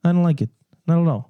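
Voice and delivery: mock Gotham local voice; Gotham accent. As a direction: protest in a hammy Gotham accent. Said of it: "This is my Gotham accent".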